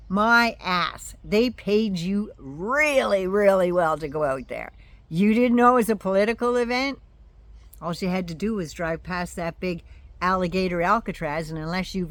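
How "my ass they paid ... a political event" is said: loud, indignant scolding; angry scolding. Acted. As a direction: tell her off hard. Scolding the food truck owner.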